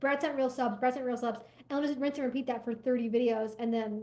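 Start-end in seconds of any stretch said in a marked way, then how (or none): none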